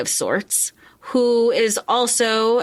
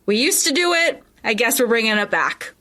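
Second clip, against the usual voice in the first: smug mock. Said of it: "They were so ready to be like".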